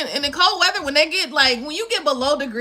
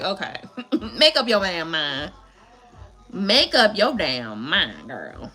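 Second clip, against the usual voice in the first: exasperated; 7 semitones lower, slower than usual. Retold or imitated. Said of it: "that's when I'll be like".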